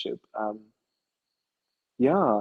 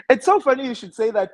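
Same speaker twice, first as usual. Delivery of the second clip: laughing; 11 semitones higher, 6 dB louder than usual. Real, not acted. Amused reply to dating joke.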